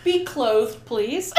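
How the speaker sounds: laughing loudly through the words. Real, not acted. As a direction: laugh out the request. Joking request amid laughter.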